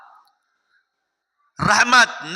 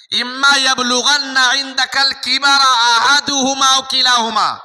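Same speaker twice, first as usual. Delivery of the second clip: chanted Arabic verse, measured and ringing; Quran recitation. Acted. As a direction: intone the verse like a preacher quoting scripture.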